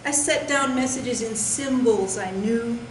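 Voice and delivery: measured poetry recital in short, separated phrases; deliberate delivery with pauses between lines; poem reading. Acted. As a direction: read your poem to an audience, landing each phrase. Reads own poem aloud.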